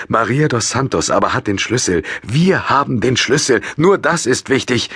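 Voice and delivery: voiced older man, stern. A narrator's reading. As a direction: put her in her place.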